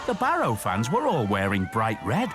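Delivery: put-on lively storybook narration for children; story narration. A narrator's reading. Narrator telling the soccer story to children in a lively storybook voice. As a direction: read it like a bedtime story.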